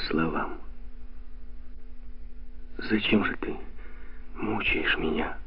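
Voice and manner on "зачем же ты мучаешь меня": moaning. A narrator's reading. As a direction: let it drag out softly like a quiet moan. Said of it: "простонала Джой".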